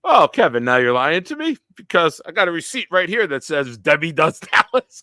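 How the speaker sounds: fake-friendly dad setting a trap; mocking dad. Friend's dad teasing the boys in the elevator, high sing-song. Dad catching son's lie.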